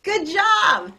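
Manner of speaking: very high, loud game calls; excited shout. Real, not acted. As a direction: whip up the class, then cheer. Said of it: "Get ready".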